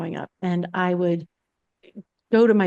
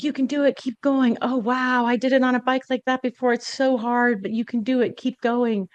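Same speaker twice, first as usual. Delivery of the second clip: cheering on; 5 semitones higher than usual. Retold or imitated. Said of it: "They're like".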